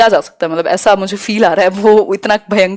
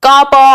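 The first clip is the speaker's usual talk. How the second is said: put-on baby cooing sounds; 3 semitones higher, 5 dB louder, much slower than usual. Shown as a demonstration. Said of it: "cooing मतलब कूकना".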